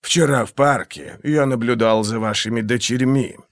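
purring insinuation. Acted. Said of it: "вкрадчиво промурлыкал он".

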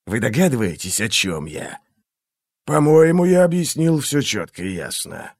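silky, menacing interrogator; a cold torturer toying with his victim; menacing inquisitor voice. Acted. Glokta's held voice.

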